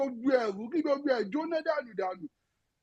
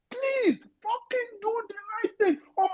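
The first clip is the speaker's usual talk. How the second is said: tearful plea; 6 semitones higher, slower than usual. Real, not acted. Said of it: "that was quite passionate".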